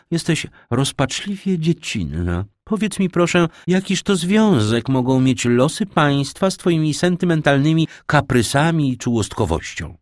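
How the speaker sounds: scolding marchioness. A narrator's reading. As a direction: scold her for sentimental whims. Margrabina scolds daughter. (wyższy, głośniejszy, karcący głos margrabiny)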